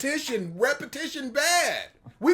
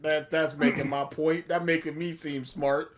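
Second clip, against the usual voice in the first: robot voice; 6 semitones lower than usual. Pretend. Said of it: "Thanks, Microsoft Sam".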